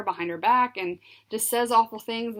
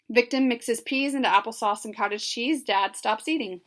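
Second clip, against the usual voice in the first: usual speaking voice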